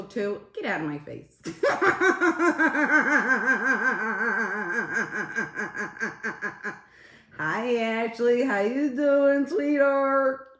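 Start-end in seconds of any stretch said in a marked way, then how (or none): 1.4-6.8 loud, high rattling laugh slowly dying down; long cackle. Real, not acted. Streamer cracking up after joking with chat, long cackle. 7.4-10.5 slow, high, belted-out hello; loud high greeting. Real, not acted. Streamer hailing a viewer as sweetheart, loud drawn-out high greeting.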